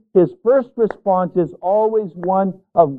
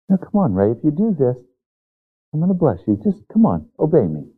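gentle coaxing; faster than usual. Retold or imitated. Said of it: "Speaks very gently to me".

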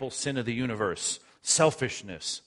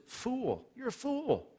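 much higher, scornful cry of fool; God calling out the foolish rich man; God rebuking; 13 semitones higher, 4 dB quieter, slower than usual. Acted. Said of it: "you don't see God saying these kind of pejorative words".

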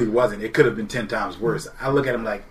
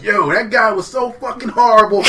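laughing mockery; 12 semitones higher, 10 dB louder than usual. Cashier mocking, laughing.

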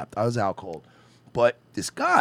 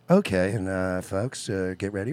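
white voice; 7 semitones lower than usual. Retold or imitated. Lightly voiced flight attendant addressing passengers politely. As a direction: imitate a prim flight attendant announcement. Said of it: "White voice".

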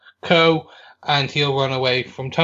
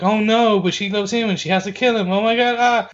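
higher-pitched mock anguish; hammed-up dismay, pitched up; distressed viewer; 5 semitones higher than usual. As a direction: play a viewer fretting over the lovers. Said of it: "you're literally like".

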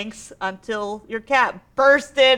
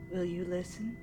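unearthly voice; 4 semitones lower, 11 dB quieter than usual. Acted. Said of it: "and says".

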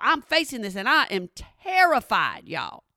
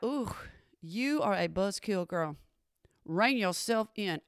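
lightly voiced disapproving women, low and hushed; quiet, low mock reproach; judging onlookers; 4 semitones lower, 9 dB quieter than usual. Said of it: "they're looking at me like".

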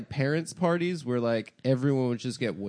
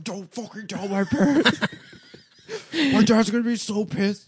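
higher, louder mock panicked plea; panicked friend; 9 semitones higher, 5 dB louder than usual. Guest voices a scared teen friend, higher and louder. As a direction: beg them not to tell. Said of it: "He's like".

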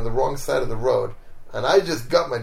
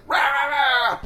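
high wordless rant; mock angry shouting; 13 semitones higher, much slower than usual. Angry neighbor yelling over the bumped car, mockingly imitated. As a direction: imitate a ranting man with high-pitched noise. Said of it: "he just kept shouting".

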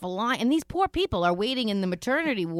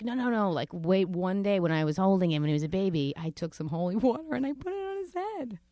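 sheepish father voice. Retold or imitated. Father's excuse, voiced and laughing.

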